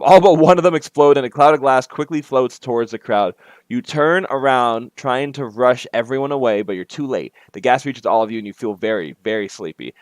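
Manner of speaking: lively game-text read-aloud; story narration. A narrator's reading. Player reading out the party scene under the bridge, story narration. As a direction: read the scene out to set the stage.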